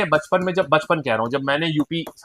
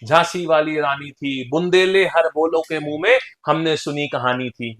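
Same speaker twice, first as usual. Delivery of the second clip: slow, measured verse; poem recitation. Shown as a demonstration. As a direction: recite it like a remembered school poem. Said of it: "एक बोलते थे". (कविता पाठ के अंदाज़ में)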